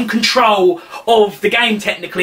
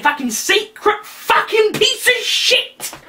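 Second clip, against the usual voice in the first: slow angry rant; 11 semitones higher, slower than usual. Real, not acted.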